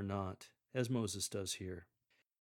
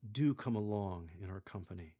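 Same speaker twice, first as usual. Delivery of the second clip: yearning plea; 2 semitones lower than usual. Shown as a demonstration. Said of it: "one of yearning when Moses beseeches".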